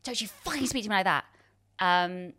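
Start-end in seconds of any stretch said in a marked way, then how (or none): 0.0-1.2 restrained, venomous mock telling-off; imitated anger. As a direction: imitate an angry director right in someone's face. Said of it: "right in my face".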